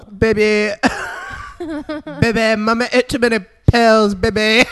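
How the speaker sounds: mock needy mother. Mocking the suicidal mother.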